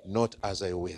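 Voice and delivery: low, soft submission; pleading prayer. Acted. Jesus submits to the Father's will, low and pleading. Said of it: "He was pleading with the Father".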